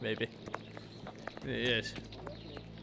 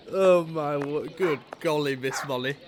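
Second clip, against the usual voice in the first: mock exasperation; 5 dB louder than usual. Real, not acted. Slow exaggerated exclamation.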